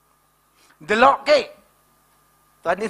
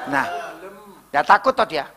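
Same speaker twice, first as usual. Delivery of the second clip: usual speaking voice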